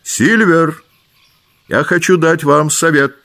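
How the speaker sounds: the doctor shouting for Silver; calling out. A narrator's reading. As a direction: call across to the cook. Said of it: "крикнул он".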